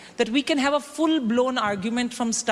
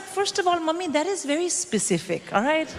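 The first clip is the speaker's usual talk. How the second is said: high indignant; 5 semitones higher than usual. Retold or imitated. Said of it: "I was like".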